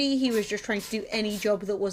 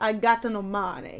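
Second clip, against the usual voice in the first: fake Italian accent, spoken slower. Telling a story about going to uni, in a fake Italian accent. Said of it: "I cannot say I had no money in a non-fake Italian accent".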